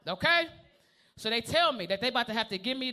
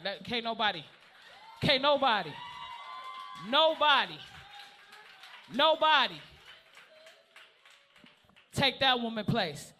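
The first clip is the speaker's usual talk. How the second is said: emphatic vow. Real, not acted. Swearing nobody replaces his wife, shouting. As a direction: hammer each nobody home.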